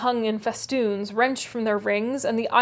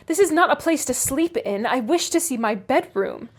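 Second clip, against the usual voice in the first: angry demand; 3 semitones higher than usual. Acted. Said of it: "facing him angrily".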